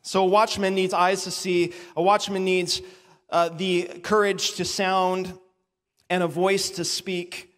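slow, weighted list of points; laying out the watchman's three duties slowly; sermon points. Shown as a demonstration. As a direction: lean on each point. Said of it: "listing the sermon points".

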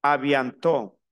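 "Aviantó" as French "a bientôt", ending on an open O; careful "a-bian-to", T silent at the end; silent final T. Shown as a demonstration. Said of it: "La T final no se pronuncia".

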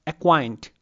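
"acquaint" with a light first syllable and stronger "quaint"; stress on second syllable. Shown as a demonstration. Teacher showing unstressed then stressed syllable, stressing "quaint". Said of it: "more stress in the later part".

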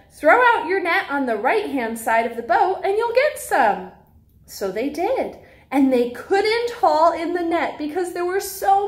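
lively storybook read-aloud for little ones; reading to children. Acted. Teacher reads a Bible story to preschoolers in storybook voice.

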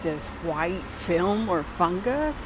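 slight lisp, sore tongue. Real, not acted. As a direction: talk carefully around a swollen tongue. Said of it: "kinda have, like, a slight lisp to it".

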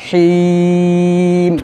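হিম long then closed on ম; stopped ending. Shown as a demonstration. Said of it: "জজমের মতো উচ্চারণ করতে হবে". (জজমের মতো হিম)

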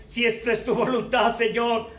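hushed prayer of acceptance; quiet prayer. Retold or imitated. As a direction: pray it humbly and softly. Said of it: "puedo hablar y decirte".

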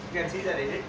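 put-on Scottish accent. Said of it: "in Scottish".

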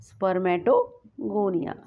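spermatogonia stretched out very slowly; teacher repeating the term spermatogonia slowly for the class; slow dictation. Shown as a demonstration. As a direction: let every syllable of spermatogonia land for note-taking. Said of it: "that is spermatogonia".

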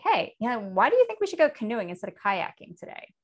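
flat falling judgmental question. Shown as a demonstration. Teacher demos a judgmental version of the question. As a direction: ask it as if already disapproving. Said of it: "Sounds totally different".

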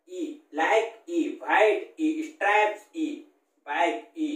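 each word followed by a stretched ई to isolate the vowel; word, then ई; vowel drill. Shown as a demonstration. Teacher isolates the vowel sound in each word for the class. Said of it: "किसकी ध्वनि निकल रही है".

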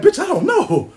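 the DNA center giving up, chuckling; mock clinic answer, laughing. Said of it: "Center gonna be like".

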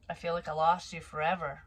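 usual speaking voice

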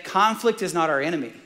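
ordinary talk, nothing marked

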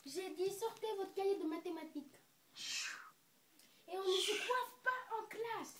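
repeated order in a hushed whisper; whispering teacher. Acted. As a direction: hiss the order again under your breath.

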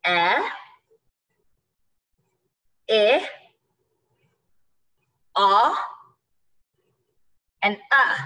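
A, e, I, O, uh each said as a short vowel, apart; short vowel sounds. Shown as a demonstration. Teacher reviews short vowels, each sound said alone. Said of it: "Those are short vowel sounds".

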